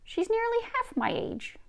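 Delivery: whispered grandmother reveal; secretive Nokomis. Acted.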